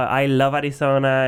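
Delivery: Arizona in a Puerto Rican accent. Real, not acted. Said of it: "I love how you say Arizona".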